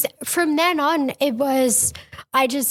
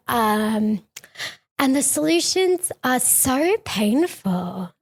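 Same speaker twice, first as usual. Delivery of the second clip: put-on Valley Girl voice. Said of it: "Can I read it in my Valley Girl voice?".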